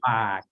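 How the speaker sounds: "bag" opening between a P and a B. Shown as a demonstration. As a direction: start "bag" with a hard sound halfway from P to B. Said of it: "between a P and a B sound".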